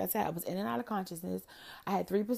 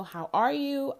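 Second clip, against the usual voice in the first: mock proper; 5 semitones higher, 6 dB louder, slower than usual. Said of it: "If I didn't know".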